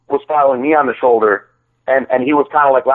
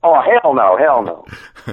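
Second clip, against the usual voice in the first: lightly imitated accent of a friend; mock refusal in a buddy's accent; Timbo's accent; much slower than usual. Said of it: "I'm doing it in his accent".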